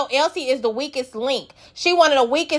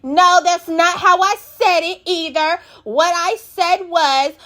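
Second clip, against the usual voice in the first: higher, slow mock correction; lightly imitating a defensive correction; correcting; 4 semitones higher, slower than usual. Russian correcting the story, slow and higher. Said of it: "Russian gotta say".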